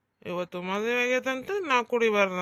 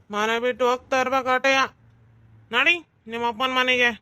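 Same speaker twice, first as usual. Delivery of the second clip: fast, louder, bossy command; angry order; 4 dB louder, faster than usual. Acted. Husband orders his wife out of the house, angry and fast. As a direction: throw her out of the house.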